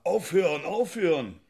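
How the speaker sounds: loud, high mock yell of stop; retold shout. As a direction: yell it like the man being beaten. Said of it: "Da schreit er". (laut nachgeahmter Schrei, hoch und kräftig)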